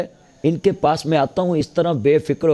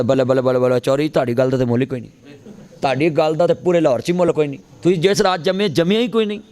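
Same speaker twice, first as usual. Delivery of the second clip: rapid gushing praise, climbing in pitch; hammed-up flattery, rising as it goes; mock fawning flatterer; faster than usual. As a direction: lightly play a yes-man piling on praise. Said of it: "ਚਮਚਾ ਪਤਾ ਕਿਹਨੂੰ ਕਹਿੰਦੇ".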